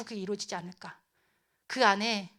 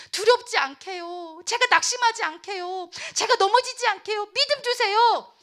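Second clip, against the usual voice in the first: high-pitched, mounting plea; fervent begging; desperate pleading prayer; 9 semitones higher, 5 dB louder than usual. Acted. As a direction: pour it out to God, building to a loud cry. Acting a desperate prayer to God.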